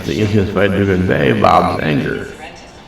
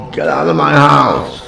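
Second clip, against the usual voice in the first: raised, high-pitched angry yell; big yell; 9 semitones higher, 4 dB louder than usual. Shown as a demonstration. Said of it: "I want a big yell".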